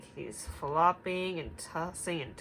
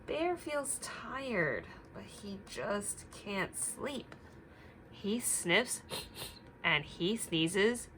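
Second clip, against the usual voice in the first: put-on reading to children; slower than usual. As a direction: read it gently to little listeners. Reading story aloud to children.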